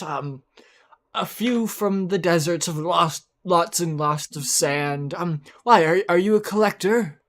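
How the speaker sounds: a fussy collector gnome, lightly voiced; gnome old man voice. Gnome NPC speaking in character.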